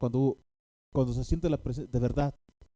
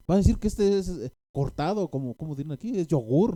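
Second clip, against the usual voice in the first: pleading with the Lord; 4 semitones higher, 4 dB louder than usual. Retold or imitated. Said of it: "me estaba diciendo a mí".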